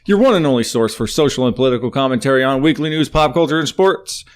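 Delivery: upbeat radio host intro; announcer read. Acted. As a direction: sell it like a show opener. Reads podcast welcome intro.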